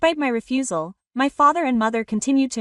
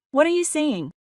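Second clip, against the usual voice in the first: higher-pitched, mildly astonished question; 5 semitones higher than usual. A narrator's reading. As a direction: ask with a touch of astonishment. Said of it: "astonished by my words".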